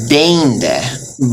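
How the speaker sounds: Deinde with a drawn-out ei; extended EI. Shown as a demonstration. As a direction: stretch the first vowel of Deinde. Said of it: "extend it out a little more".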